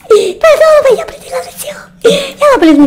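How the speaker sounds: mock whimpering. Terrified boyfriend pleading with the witch, mock whimpering. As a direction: whine for mercy, half laughing.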